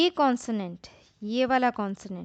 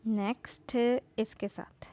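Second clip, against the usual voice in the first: whispered aside; 5 dB quieter than usual. Real, not acted. Quiet aside to self.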